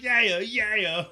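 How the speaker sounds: mock eager yeah. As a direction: imitate an overeager agree. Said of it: "And I was like".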